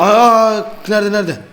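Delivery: frantic search while the monster comes; being chased. Real, not acted. Monster appears, panic.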